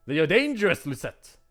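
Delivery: sharp motherly caution; stern mother. Acted. Mother warns Lucette about knights, stern.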